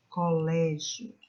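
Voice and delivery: "colégio" slowly with LÉ drawn out; stressed penult. Shown as a demonstration. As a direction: stretch the strong LÉ in "colégio". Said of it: "da sílaba forte".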